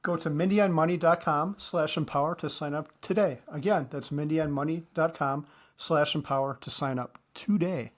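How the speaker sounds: quick, run-together web address; really fast. Real, not acted. Co-host reading the sponsor's web address, really fast. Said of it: "you just said it really fast".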